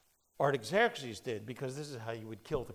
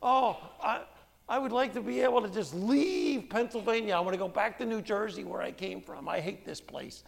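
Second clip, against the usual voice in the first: higher, wistfully pleading to go home; longing prisoner; 7 semitones higher, 5 dB louder than usual. Retold or imitated. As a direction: wish yourself back to New Jersey. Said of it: "the other guy says".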